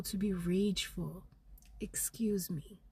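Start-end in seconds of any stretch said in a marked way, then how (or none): 1.8-2.8 whispered excuse me. Shown as a demonstration. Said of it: "has been the guidance".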